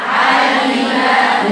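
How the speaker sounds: عالمة drawn out, each letter from its own place; very slow model reading of عالمة; careful articulation. Shown as a demonstration. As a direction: stretch عالمة syllable by syllable. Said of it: "إزاي تقرأيها؟".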